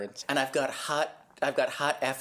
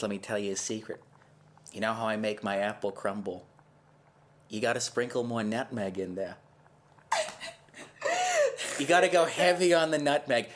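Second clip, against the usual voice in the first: put-on Massachusetts accent; 2 semitones lower than usual. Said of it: "You sound like you're from Massachusetts".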